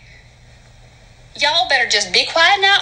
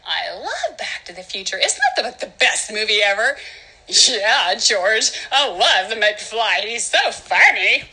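dopey movie fan; 5 semitones lower than usual. Acted. Film fan gushing to George, low dopey voice. Playing a dim McFly fan.

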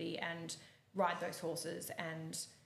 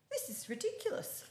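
much higher mock exasperation; exasperated coach. Coach despairs over the eventer rider, high exasperated voice. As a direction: throw it up high in disbelief.

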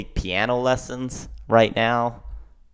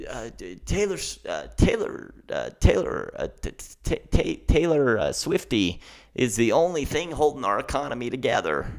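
horrible Joe Biden impression; 2 semitones higher than usual. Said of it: "That was a horrible Joe Biden impression".

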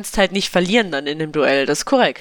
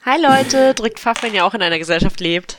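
YouTuber intro voice; 4 semitones higher than usual. Retold or imitated. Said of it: "ob Sammy Slimani so redet".

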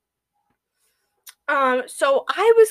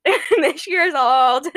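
drawn-out words broken by laughter; giggling through a slow retelling; laughing; 6 semitones higher, much slower than usual. Real, not acted. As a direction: crack up while getting the words out. Laughing while quoting hair lady's details.

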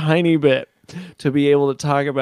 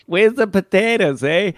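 higher quoted "Where's the potatoes, eh?"; 6 semitones higher than usual. Retold or imitated. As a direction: quote the old ad with a twang. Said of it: "we saw really".

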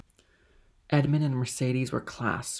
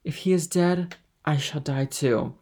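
put-on passionate young woman; 4 semitones higher, 5 dB louder than usual. A narrator's reading. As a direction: answer with fervent resolve. Mercedes answers passionately.

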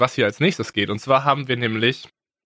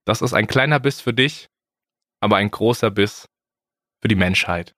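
solemn moon-landing parody; 4 semitones lower than usual. Pretend. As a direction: say it like a historic broadcast.

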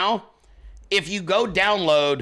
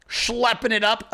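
"schlepping" pitched higher and drawn out slowly; playful schlepping; 5 semitones higher, slower than usual. Shown as a demonstration. Vlogger hamming up his schleppy look for fans, slow and higher. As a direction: toss off "schlepping it up" teasingly. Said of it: "very schleppy".

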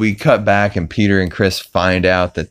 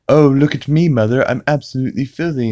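mock taunt, higher and louder; 7 semitones higher, 4 dB louder, faster than usual. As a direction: playfully imitate a bratty taunt. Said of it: "He taunts her".

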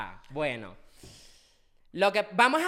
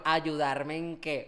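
slow question through held-back laughter; holding in a giggle; trying not to laugh; 4 semitones lower, much slower than usual. Real, not acted. Teasing question, laughter breaks in. (aguantando la risa)

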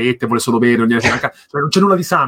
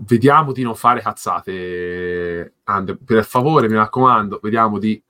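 mock stern; 2 semitones lower, slower than usual. Scolding friend over joke purchase.

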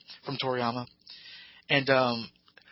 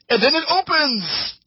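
dramatic reveal; 11 semitones higher, 4 dB louder, slower than usual. Real, not acted. Cocoon reveal in recap.

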